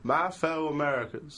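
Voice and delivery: put-on presidential American accent, lightly done. Asked to do George Bush, plain American accent. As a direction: open an address in an American accent. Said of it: "That's just an American accent".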